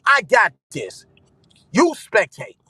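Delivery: a mild booming God voice; lightly played God, unbothered; voicing God. Streamer voicing God telling him to sit back. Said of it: "God saying".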